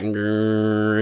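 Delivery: soft mock growl of clippers; a low quiet buzz-growl; imitated clipper growl. Imitating clippers at his head, soft growl. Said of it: "they were like".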